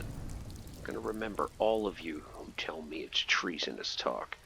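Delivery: low, whispery grudge; mock menacing mutter. Player vows to remember refusers, hushed mock menace. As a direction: drop very soft and low, as if plotting.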